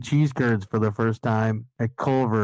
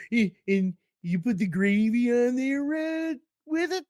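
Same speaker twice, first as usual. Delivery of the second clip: put-on squeaky questioning French Canadian accent; 10 semitones higher than usual. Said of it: "went from a French Canadian accent".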